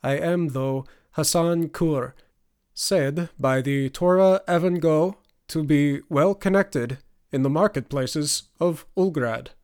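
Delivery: slow, playful attempt at an Ulgrad accent; mock Ulgrad accent. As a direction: put on a teasing Ulgrad accent. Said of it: "attempted an Ulgrad accent".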